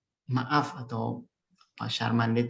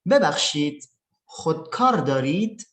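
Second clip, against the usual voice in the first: "خودکار دارید؟" with a clear rise at the end; "ببخشید" set apart, then "دارید" rising as a question; question intonation; 2 semitones higher, 4 dB louder than usual. Shown as a demonstration. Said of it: "Perhatikan intonasinya juga ya".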